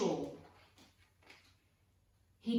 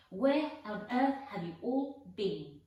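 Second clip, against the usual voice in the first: surprised scolding; 3 semitones higher, 5 dB louder than usual. Acted. Fat lady surprised at the children.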